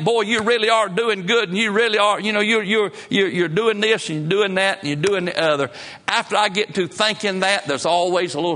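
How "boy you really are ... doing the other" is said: higher-pitched, mock self-praise; self-congratulation. Preacher mimicking his own proud thoughts, self-congratulating. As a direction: pat yourself on the back, pitched up.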